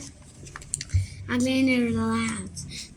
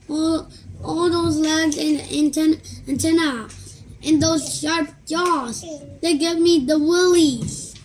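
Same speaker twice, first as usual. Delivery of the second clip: higher, louder creeped-out dad; 4 semitones higher, 5 dB louder than usual. Acted. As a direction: shudder at the bugs.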